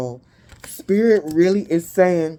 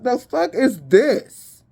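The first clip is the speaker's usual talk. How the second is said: mock exasperation; 7 semitones higher, slower than usual. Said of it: "And I'll be like".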